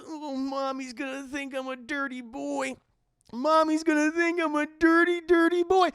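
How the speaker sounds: hammed-up high voice building to a loud peak; creepy mama's boy. Voicing man in next stall.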